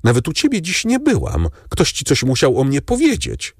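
put-on high, fast worried young woman; young woman anxiously asking her grandfather; pleading granddaughter. A narrator's reading. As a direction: rush the question to grandfather. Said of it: "pytała dalej".

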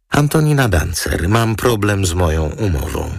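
put-on high, sweet society-girl voice; lightly voiced model. Model introducing herself to the lawyer, high and sweet. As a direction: chirp your name like a glamorous model.

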